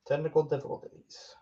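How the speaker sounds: weird voice. Real, not acted. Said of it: "Why did I say that so weird?".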